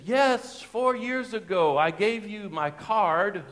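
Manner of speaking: put-on slow, high German-accented reminder. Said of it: "it was a German accent".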